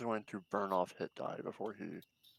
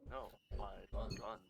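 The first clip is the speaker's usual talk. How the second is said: far from the microphone; far away; 11 dB quieter than usual. Real, not acted. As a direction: voice distant and faint. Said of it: "Why do you sound so far away?".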